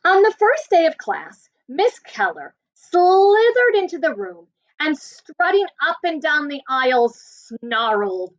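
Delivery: expressive read-aloud to a class; story narration. Acted. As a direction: tell it like a storyteller for kids. Teacher reads story to class.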